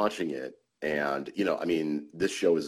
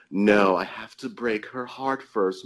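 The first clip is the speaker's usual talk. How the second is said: Doctor Evil; 4 semitones higher, 3 dB louder, slower than usual. Retold or imitated. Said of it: "he was Doctor Evil".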